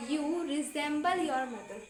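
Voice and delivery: very slow, each word laid out for learners; slow teaching read. Shown as a demonstration. Teacher reading an English phrase to students, very slow. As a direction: spell it out slowly so students can repeat. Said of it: "तो आप बोलोगे".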